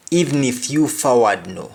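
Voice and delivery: patois, Even stressed; Jamaican patois. Shown as a demonstration. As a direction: repeat Even if you forward no. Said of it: "the example is".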